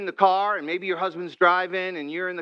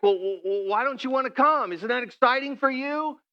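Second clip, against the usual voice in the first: a higher, stammering, let-down wife; hurt wife, higher; 6 semitones higher than usual. Retold or imitated. Wife let down by her husband, higher and stammering. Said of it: "you were like".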